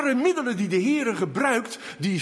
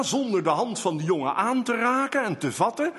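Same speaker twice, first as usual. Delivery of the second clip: normal talking voice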